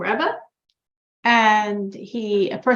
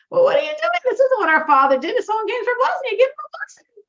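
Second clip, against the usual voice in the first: high-pitched, loud protest; indignant scolding; 12 semitones higher, 4 dB louder, faster than usual. Retold or imitated. Older brother challenges the new Rebbe, scolding indignantly. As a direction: take the younger brother to task in a raised, high voice.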